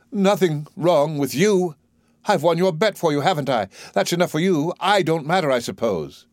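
high, resentful outburst; bitter anger. Acted. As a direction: throw it back at him bitterly. Eliza raging at Higgins.

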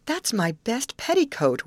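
high-pitched mock wail of dismay. A narrator's reading. Molly to the twins over her petticoat, wailing. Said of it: "wailed Molly".

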